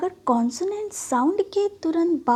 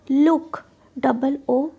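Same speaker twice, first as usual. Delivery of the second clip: slow, louder लुक with a long ऊ; slow demo; 4 dB louder, much slower than usual. Shown as a demonstration. Teacher to students, slowly sounding out the double o. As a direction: stretch out लुक for learners. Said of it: "long vowel sound".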